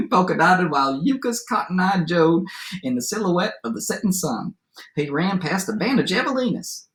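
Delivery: lively storyteller read-aloud with swooping pitch; story narration. A narrator's reading. Teacher reads a favorite adapted fairy tale aloud, lively storytelling. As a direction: read it to children as a tall tale.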